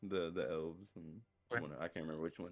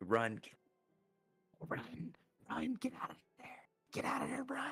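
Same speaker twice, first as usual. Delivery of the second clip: ominous, eerie whispering, much higher pitch. A player casts a spell so voices warn a character, in ominous whispers. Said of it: "I wanna do the ominous whispers around him".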